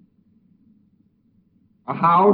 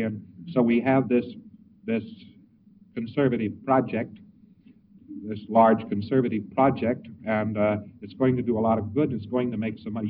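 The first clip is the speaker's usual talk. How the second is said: conservative sales talk; 6 semitones lower, 7 dB quieter than usual. Retold or imitated. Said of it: "talking to him more or less conservatively".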